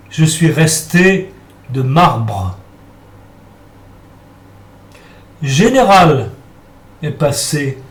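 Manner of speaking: solemn recital, pausing between short phrases; poem recitation. Acted. Priest recites his own poem Adoration to brothers and sisters, declaimed.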